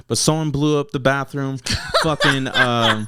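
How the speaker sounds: words broken up by real laughter; can't hold back the laugh while telling it; laughing through words. Real, not acted. Rapper laughing while telling the host about the bathroom.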